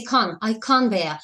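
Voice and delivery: "can" as a long "kahn", no T; British AH in "can", running straight into "bear"; British can't, T dropped. Shown as a demonstration. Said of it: "British people decide to say".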